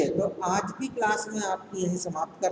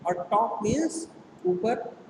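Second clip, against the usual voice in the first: slow explaining; 2 semitones higher, slower than usual. Shown as a demonstration. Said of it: "desk means होता है".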